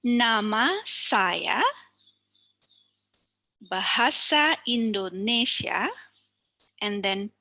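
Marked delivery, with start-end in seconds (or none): 0.0-5.9 slow NAma SAya, baHAsa IndoNEsia, stressed before each last syllable; penultimate stress. Shown as a demonstration. Teacher repeats examples for students, stressing each penultimate syllable of Nama saya, bahasa Indonesia. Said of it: "let me repeat one more time".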